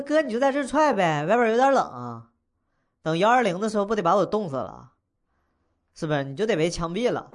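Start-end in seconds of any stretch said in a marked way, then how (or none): 0.0-4.9 higher-pitched, glib wisecracking retort; cheeky backtalk. Acted. Young host sasses the man threatening to kick him, cheeky and high. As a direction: talk back cheekily, pitched up. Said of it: "没看你嘴还挺贫的".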